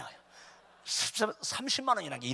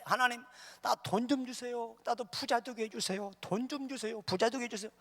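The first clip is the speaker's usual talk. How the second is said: high, softened repetitive begging; pleading prayer; 7 semitones higher than usual. Acted. Poor man praying for years to be rich, acted pleading prayer. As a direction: implore in a small raised voice.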